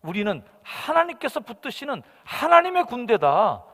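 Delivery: loud, high indignant cry; rally the army with outrage; defiant shout. Acted. David shouting to the frightened army. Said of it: "하는 소리를 지른 거예요".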